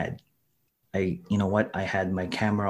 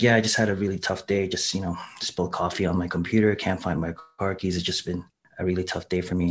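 mock downcast; 3 semitones lower than usual. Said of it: "low key and just monotone".

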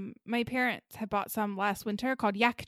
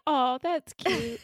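patronizing; 4 semitones higher, slower than usual. Pretend. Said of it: "They'd be like".

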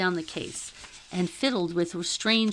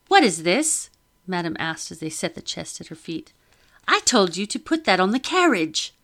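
loud, indignant question; annoyed lady; 4 dB louder than usual. Acted. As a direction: demand it like an offended mistress. Madame annoyed at sailors.

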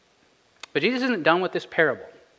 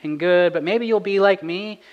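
higher, louder, quick indignant voice; imagined congregant objecting; 4 semitones higher, 4 dB louder than usual. Retold or imitated. Pastor voicing a doubting listener's protest, higher and louder. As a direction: play a bewildered churchgoer pushing back. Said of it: "you might be thinking to yourself".

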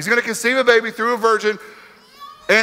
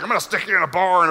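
mustache twirling villain; faster than usual. Retold or imitated. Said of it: "laughing at him like the penguin".

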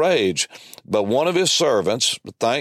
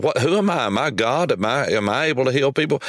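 indignant king; 2 semitones higher, faster than usual. Acted. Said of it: "didn't take this lightly".

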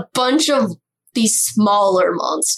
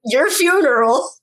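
uncle voice; 3 semitones higher than usual. Acted. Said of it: "Dragonfly using the uncle voice".

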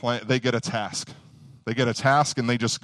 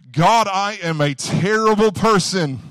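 mock worship prayer; 6 semitones higher, 4 dB louder than usual. Preacher mimicking self-abasing worshippers, pleading. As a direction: ham up a groveling churchgoer crying out to God.

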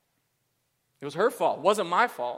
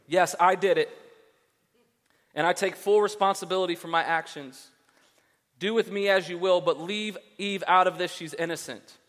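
noble mock confession; 3 semitones higher, 4 dB louder than usual. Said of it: "That's not actually what it says".

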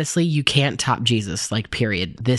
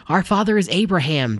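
higher-pitched declaration in a read-aloud; declaring; 6 semitones higher than usual. A narrator's reading. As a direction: declare it as the crowd's retort. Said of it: "they declared".

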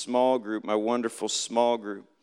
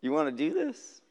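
high, breathy whisper of disbelief; a hushed, high-pitched whisper of doubt; incredulous whisper; 14 semitones higher, 5 dB quieter than usual. Retold or imitated. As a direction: whisper it up high, half to yourself.

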